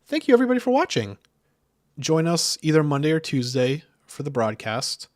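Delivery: high, fast, loud YouTuber outro; hyped-up YouTuber sign-off. Pretend. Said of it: "That's my new YouTuber voice".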